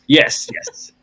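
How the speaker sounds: put-on Jekyll as "Jee-kyll" in a high, loud, laughing South African accent; mocking the film's South African Jekyll. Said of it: "they go very South African very quickly".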